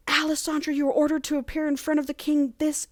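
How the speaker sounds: high-pitched mock messenger's order; royal summons. Messenger summoning Alessandra before the king, high mock-official voice. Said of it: "Someone comes in".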